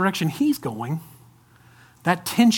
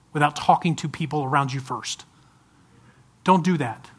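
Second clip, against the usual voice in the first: tender pastoral appeal; earnest plea; 3 semitones lower than usual. Real, not acted. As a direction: beg them sincerely. Begging congregation.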